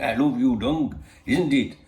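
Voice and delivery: hint of a badly done Welsh accent; attempted Welsh accent. Man quoting his Welsh friend in the pub, rough Welsh accent. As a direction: have a light go at a Welsh accent. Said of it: "I can't do the accent".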